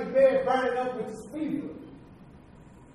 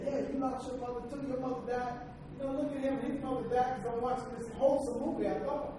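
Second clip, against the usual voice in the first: spirit of depression voice; 7 dB quieter than usual. Retold or imitated. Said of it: "It said".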